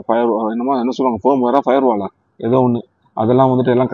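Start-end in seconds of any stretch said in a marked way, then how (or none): 1.2-2.1 words jump high, quizzical; unsure high guess. Real, not acted. Fumbling for the tech term, high and unsure.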